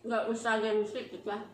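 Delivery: talking with food in mouth; speaking between bites; chewing while talking. Real, not acted. Seen 1: Food taken at -7, cheek bulge at 0.1, talking mid-meal.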